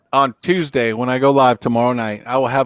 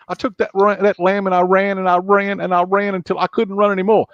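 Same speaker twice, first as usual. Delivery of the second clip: put-on young Clarice; 7 semitones higher than usual. Clarice confessing to Lecter, higher and haunted.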